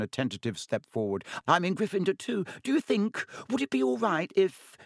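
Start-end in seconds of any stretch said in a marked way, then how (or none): 1.5-4.8 put-on high, hopeful young boy voice; nervous, hopeful schoolboy asking a favour; eager boy. A narrator's reading. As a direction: plead politely for a photo. Colin shyly asks for photo.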